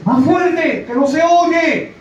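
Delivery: put-on high, loud shout of an old woman from the back pew; old lady yelling. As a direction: yell it up to the preacher like a deaf old lady.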